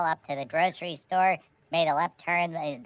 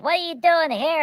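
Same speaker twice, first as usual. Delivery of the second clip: Dalek voice; 9 semitones higher than usual. Retold or imitated. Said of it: "the dialect is like".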